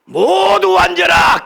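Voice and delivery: high, drawn-out shouted command. Pretend. Preacher imagining himself as Jesus ordering the crowd, commanding shout. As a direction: call the whole crowd to order, loudly. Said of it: "내가 예수님 같으면요".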